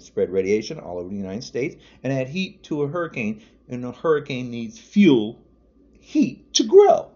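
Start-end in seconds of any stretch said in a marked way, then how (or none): 6.0-7.1 a high, loud, slow burst of exasperation; sudden shout. Real, not acted. Ranting man shouts at Trump supporters in disbelief. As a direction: hurl the last words out in disbelief.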